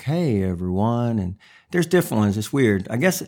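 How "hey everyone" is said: slow North Carolina drawl; North Carolina accent. Shown as a demonstration. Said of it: "North Carolina is more like".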